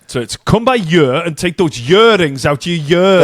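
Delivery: Welsh sing-song; Welsh accent. Shown as a demonstration. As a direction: read it as a Welsh speaker. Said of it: "The year is more like year".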